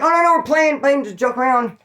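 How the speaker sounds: high, eager denial, talking fast to a cop; mock innocent protest. Caught by the lady cop, pleading it was just a game, high and eager.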